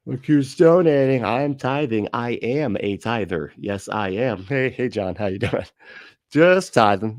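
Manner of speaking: hammed-up pious braggart; showy tither. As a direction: announce your generosity to the whole room. Acting showy churchgoer tithing.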